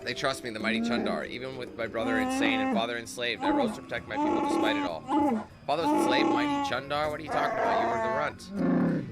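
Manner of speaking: lightly voiced proud alien chief; scheming Wookiee chieftain. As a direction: lord it over your exiled brother. Voices Chundar in game scene.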